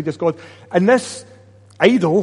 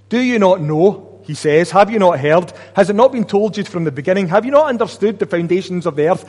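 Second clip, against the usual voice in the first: louder, insistent rhetorical questions; rebuking prophet; 3 semitones higher, 4 dB louder than usual. Acted. Isaiah confronting the people, loud and insistent. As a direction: press each question home like a prophet.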